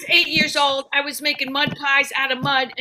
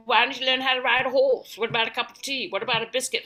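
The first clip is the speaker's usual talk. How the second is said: lightly mocked English lack of compassion; a hint of prim English advice; English accent; 2 semitones lower than usual. English people advising a depressed foreigner, mock English accent. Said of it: "'cause they're English".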